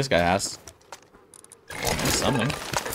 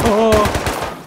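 surprised; 10 semitones higher, 6 dB louder than usual. Real, not acted. Sudden surprise in gunfight.

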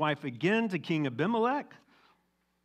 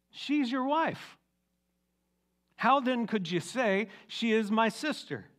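slow, high disbelief at Isaac's lie; incredulous king; 7 semitones higher, slower than usual. Acted. King Abimelech confronts Isaac, slow and high with disbelief. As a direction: drag it out, stunned and accusing.

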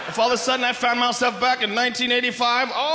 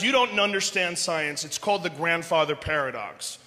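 condescending nerd, a bit lower and softer; pedantic guy; 6 semitones lower, 4 dB quieter than usual. Retold or imitated. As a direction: explain it down to him smugly. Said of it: "And the guys".

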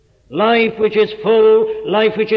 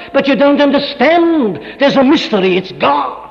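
higher and louder, pressing each short line; full-force preaching; 4 semitones higher, 5 dB louder than usual. Acted. Preacher urging the listener to give up trying, in rising full-force preaching. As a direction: drive it home to the congregation like a preacher.

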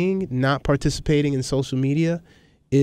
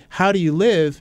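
imitating a sincere, higher-pitched question; 4 semitones higher than usual. Retelling the woman's puzzled question to him, very sincerely. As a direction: quote her in earnest, pitch lifted. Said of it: "she said very sincerely".

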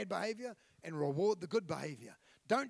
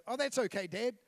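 put-on children's voice, lifted higher and louder; lightly voiced child; high kids' voice; 4 semitones higher, 4 dB louder than usual. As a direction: chirp it like a kid brushing it off. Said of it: "and they go".

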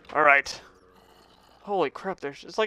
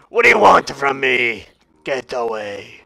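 mock anguish; 5 semitones lower, 4 dB louder than usual. Tells game creature to leave.

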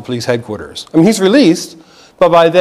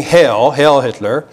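slow Roman greeting; slower than usual. Shown as a demonstration. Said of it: "it harkens back to a Roman greeting".

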